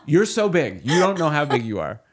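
high laughing dog voice. Retold or imitated. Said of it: "Roxy will be like this".

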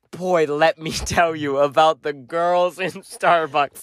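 slow, lightly mocking smoker voice. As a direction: draw it out as a boastful friend. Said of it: "in your head I talk like a smoker".

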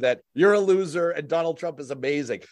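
mock Trump posing as someone else on the phone; Trump's fake alter ego. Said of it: "when he'd pretend to be someone else".

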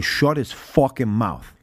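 slow, mildly aggressive order; retold aggression. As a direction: space the words out in a measured telling-off. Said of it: "a little more aggressive this time".

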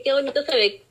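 delighted admiring tone; excited compliment. Retold or imitated. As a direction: gush over how good it looks. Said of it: "y yo dije".

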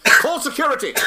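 high loud alarmed shout; shouting for help. Acted. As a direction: yell for security. Penis escaped, calling out.

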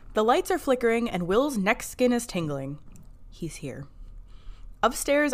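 measured, read-aloud episode summary; recap narration. A narrator's reading. Podcast host reads listeners the episode recap, narration. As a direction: narrate the plot like a storyteller.

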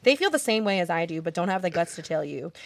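over-the-top reading of a hate message; dramatic voice. Pretend. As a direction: read it like a melodramatic villain speech. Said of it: "Read it in a dramatic voice".

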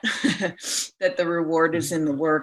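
repeats it with a laugh; chuckling self-reminder. Real, not acted. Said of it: "I have to remind myself".

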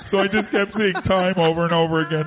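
speaking with the nose held shut; blocked-nose nasal Pidge impression; Pidge pinched-nose voice. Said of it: "your voice is changing".

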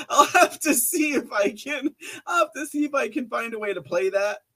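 giggling at getting booted off Facebook; laughing. Real, not acted. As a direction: laugh through it at your own ban. Laughing at being banned.

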